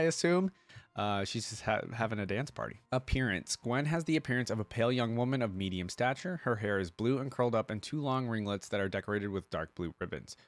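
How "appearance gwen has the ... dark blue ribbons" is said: even, measured article read-out; reading aloud. Acted. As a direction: read it out like an encyclopedia entry. Reads the character's lore aloud.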